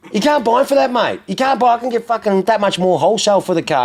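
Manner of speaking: high-pitched, exasperated protest; retold exasperation. Car dealer telling a lowball caller off, exasperated.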